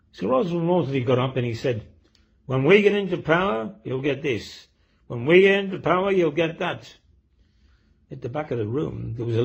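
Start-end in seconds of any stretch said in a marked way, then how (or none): 2.4-6.9 raised, louder rally-speech voice; orator's speech. Retold or imitated. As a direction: proclaim it like a politician at a meeting. Politician's rally speech in told joke.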